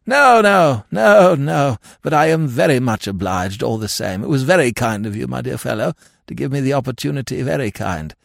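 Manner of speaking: high hearty brush-off, easing down; vague heartiness. A narrator's reading. Lord talking over Keble's explanation, hearty. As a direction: protest loudly, then thank him warmly. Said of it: "with a vague heartiness".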